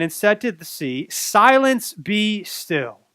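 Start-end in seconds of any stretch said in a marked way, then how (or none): 1.1-3.0 rebuke. Acted. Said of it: "rebuked the wind".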